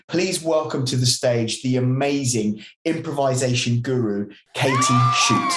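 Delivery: stage announcer introduction. Pretend. Host welcomes guest to an imagined stage, announcer build-up. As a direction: announce the act, lifting on the name.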